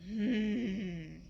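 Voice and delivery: sulky closed-mouth hmm; grumpy little hum; mad hmm. Acted. Marian getting mad, sulky hmm. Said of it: "was getting mad".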